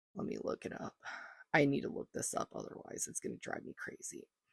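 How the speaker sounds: quiet, soft, whispered aside.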